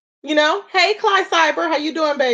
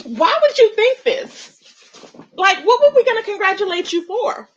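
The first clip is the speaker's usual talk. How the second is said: incredulous; 6 semitones higher than usual. Retold or imitated. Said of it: "And I'm like".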